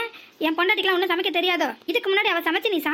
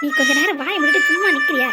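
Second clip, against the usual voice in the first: loud rebuke; 4 dB louder than usual. Acted. Husband shouts at mother.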